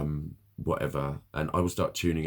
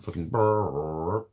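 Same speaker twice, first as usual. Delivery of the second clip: disgusted shudder; 4 dB louder, much slower than usual. Real, not acted. Shudder at clown wig and nose.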